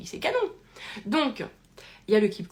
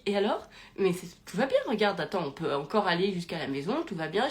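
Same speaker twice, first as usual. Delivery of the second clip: calm, low-key reassurance; unbothered, easygoing soothing; hyper zen; 3 semitones lower than usual. Retold or imitated. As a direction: imitate someone totally relaxed. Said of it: "Et lui, hyper zen".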